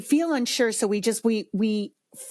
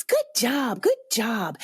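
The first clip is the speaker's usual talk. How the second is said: put-on hollow cheer; mock cheerleading voice; empty praise; 2 semitones higher, slower than usual. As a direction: toss out automatic, meaningless praise. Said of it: "your child knows it's empty praise".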